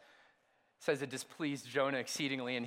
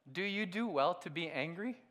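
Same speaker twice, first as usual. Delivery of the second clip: 부드럽고 다정한 하나님 목소리로 천천히; 화내는 예언자를 달래듯 온화하게; gentle loving God. Acted. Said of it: "so gentle, so loving".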